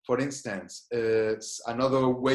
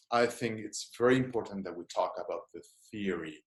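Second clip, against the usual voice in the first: changed lecturer tone; 4 semitones lower than usual. Shown as a demonstration. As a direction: drop into a serious lecturer's tone. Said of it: "now I changed my voice".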